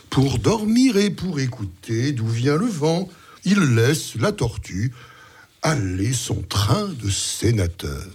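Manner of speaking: measured, expressive storytelling with deliberate pauses; lightly theatrical poetry reading; fable recitation. A narrator's reading. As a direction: recite the verse fable with lively rises and falls in pitch.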